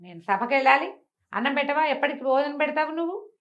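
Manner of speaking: high, loud demanding yell; angry shout. Acted. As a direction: bark for his meal. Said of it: "అని గట్టిగా అరిచాడు". (కోపంగా గట్టిగా అరుపు)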